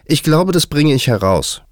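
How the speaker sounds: high, loud, confident announcement. A narrator's reading. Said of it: "sagte sie laut".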